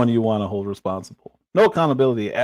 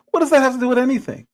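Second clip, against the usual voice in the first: exasperated shout; faster than usual. Real, not acted. Streamer mocks the senator's father story, exasperated high shout. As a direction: fire the question back in disbelief.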